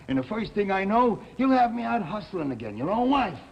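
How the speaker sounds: mock tearful girlfriend rising to a wail; mimicking Cora upset. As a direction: squeal it like her getting worked up. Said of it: "she busts out crying".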